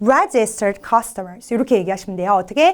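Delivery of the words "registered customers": registered customers with stress on first syllables. Teaching English word stress, say registered customers with stress on the first syllables. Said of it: "알고 보면 앞쪽에 액센트가 있습니다".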